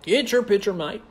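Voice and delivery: put-on country twang; country accent. Shown as a demonstration. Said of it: "Can you do a country accent?".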